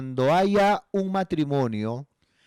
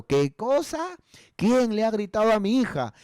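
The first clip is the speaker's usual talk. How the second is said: outraged mother; 7 semitones higher than usual. Retold or imitated. Outraged mother defends daughter.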